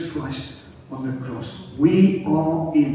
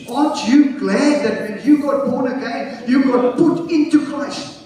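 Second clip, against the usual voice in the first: raised, exhorting pulpit voice; full-force preaching; 8 semitones higher, 3 dB louder than usual. Real, not acted. Preacher asking believers if they are glad, full-force preaching. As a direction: press each point home to the crowd.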